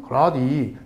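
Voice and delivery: soft, falling Jeolla intonation; understated Jeolla dialect with little accent. Shown as a demonstration. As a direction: let the pitch drop, Jeolla style. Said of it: "내리잖아".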